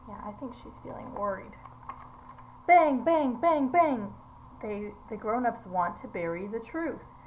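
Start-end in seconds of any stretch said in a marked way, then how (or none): 2.7-4.1 punchy, loud, high bangs; loud gunshot sounds. Acted. Teacher reading to children, acting out gunshots loudly. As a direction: hit each bang like a shot.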